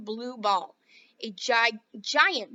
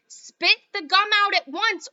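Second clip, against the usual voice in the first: loud, slow commanding shout; father orders his daughter to spit out gum; stern order; 9 semitones higher, 9 dB louder, slower than usual. Acted. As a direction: order her sharply. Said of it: "ordered Mister Beauregard".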